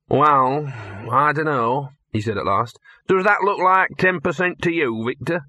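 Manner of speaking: a shrewd little dog angling for his cut; haggling mongrel. Acted. Gaspode sizes up the steak to Victor, sly.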